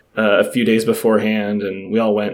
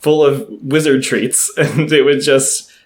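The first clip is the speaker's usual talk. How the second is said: giggling through the words; laughing; 4 semitones higher, slower than usual. Real, not acted. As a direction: laugh while you gush. Gushing about Hogwarts Express afterlife.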